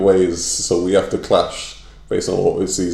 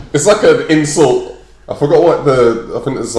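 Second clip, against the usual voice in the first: ordinary talk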